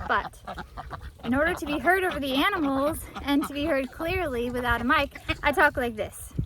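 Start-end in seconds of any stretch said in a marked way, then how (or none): 1.2-6.3 raised to carry over the animals; projected camera voice. Shown as a demonstration. Vlogger showing how they talk to be heard on camera, projected. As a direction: project as if half yelling without a mic.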